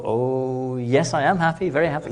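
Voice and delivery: lightly voiced child, keen to please; eager small child. Child answers grown-up eagerly.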